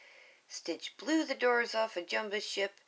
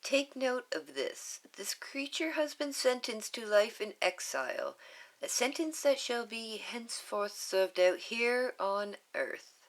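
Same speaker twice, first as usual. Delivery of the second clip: a hint of a higher, formal leader; lightly voiced councilwoman; 4 semitones higher than usual. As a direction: proclaim it formally. Councilwoman proclamation.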